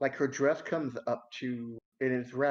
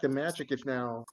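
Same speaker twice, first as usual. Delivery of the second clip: usual speaking voice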